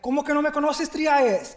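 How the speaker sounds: high, playful, can't-believe-it protest; mock offended. Student teases his old teacher for not knowing him, high and playful. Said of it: "and he's like".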